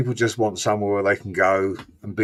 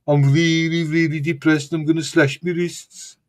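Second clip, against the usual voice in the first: mock depressed Black Country moan; lightly hammed-up Black Country gloom; gloomy Black Country accent; 4 semitones higher than usual. Shown as a demonstration. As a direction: play the glum Brummie, hammed-up misery. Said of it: "the other accent is".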